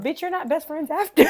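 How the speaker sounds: high laughing put-down; laughing sass. Real, not acted. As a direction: laugh while dismissing her. Laughing sassy dismissal.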